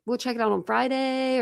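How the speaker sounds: lightly mimicked phrase, "Friday" set off; imitating her Friday. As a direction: lift the pitch, imitating how she says "Friday". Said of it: "the way she says Fridays".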